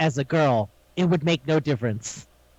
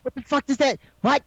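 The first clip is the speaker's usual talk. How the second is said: baffled disbelief; 8 semitones higher than usual. Retold or imitated. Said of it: "And I'm like".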